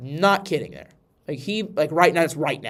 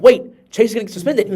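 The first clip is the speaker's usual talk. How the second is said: laughing quote; 7 semitones higher, 11 dB louder than usual. Retold or imitated. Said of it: "was like".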